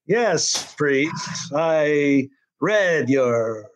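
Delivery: a hint of a sly alien villainess; falsely meek villainess. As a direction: drag it out like a sly, dutiful liar. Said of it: "we can see already that she's lying to him".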